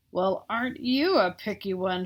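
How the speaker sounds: put-on mildly haughty monster girl; a touch of the offended monster girl sniffing at the boy; sniffy. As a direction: turn up your nose at him, lightly. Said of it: "she sniffed".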